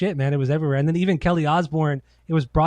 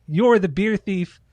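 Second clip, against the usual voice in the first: Sharon voice; 5 semitones higher than usual. Retold or imitated. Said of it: "Sharon comes out and she's like".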